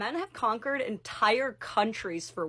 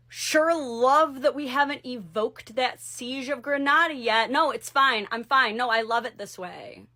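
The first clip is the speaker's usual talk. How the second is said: higher, louder mock passive-aggressive hinting; 3 semitones higher, 6 dB louder than usual. Queen hinting instead of commanding, passive-aggressive. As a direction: pretend it's fine while loudly hinting.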